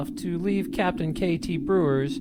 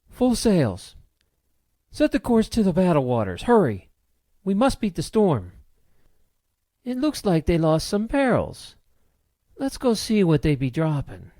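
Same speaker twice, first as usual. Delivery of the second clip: raised, forceful pirate captain's command; barked orders; 4 semitones higher, 4 dB louder than usual. A narrator's reading. Captain orders her crew to beat the storm, barking. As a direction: bark it out to the crew. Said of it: "then barked her orders".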